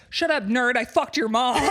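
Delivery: high, loud taunt; mock jock shout. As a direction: bark it like a smug jock. Acted jock quote, laughing.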